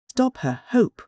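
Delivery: crying out. A narrator's reading. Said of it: "cried Random".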